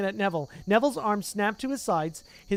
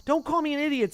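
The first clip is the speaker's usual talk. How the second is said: indignant retort; 9 semitones higher, 4 dB louder than usual. Acted. Neville retorting angrily.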